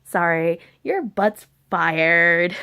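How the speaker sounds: curt, slow, offhand firing; blunt. Retold or imitated. Manager curtly firing the cook. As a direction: drop it on them flat and slow. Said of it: "No, it was immediate".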